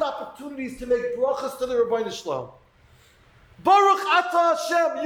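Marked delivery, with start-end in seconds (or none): 3.6-5.0 deliberate blessing, higher at the start; mindful blessing. Shown as a demonstration. Teacher showing a blessing made with full awareness, mindful and deliberate. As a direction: say the blessing as if you mean it. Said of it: "And you realize".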